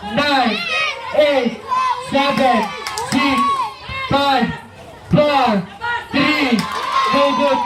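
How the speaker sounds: brisk courtside game call; live play-by-play. Acted. Announcer calling the game to the Wildcat crowd, live play-by-play. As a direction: call the plays as they happen.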